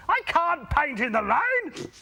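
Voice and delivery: slow, high put-on grumble; grumbling painter. A narrator's reading. Painter on his ladder grumbling about rain, slow. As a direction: complain slowly from the ladder. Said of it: "the painter grumbled".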